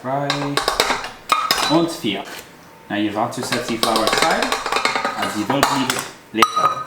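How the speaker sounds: hammy fake German accent; overdone German accent; terrible German accent. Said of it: "talking in a terrible German accent".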